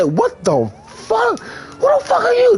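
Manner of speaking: mock yell. Narrator's last yell.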